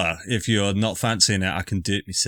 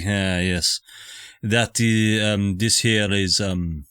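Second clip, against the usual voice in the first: put-on Scottish accent; slower than usual. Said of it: "and he'll say".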